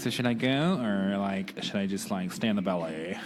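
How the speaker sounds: put-on American accent. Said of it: "when you do your American accent".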